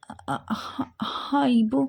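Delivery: faint stammer before admitting it; reluctant, stuttered yes; hesitant admission. A narrator's reading. Hesitantly confirms the bad news.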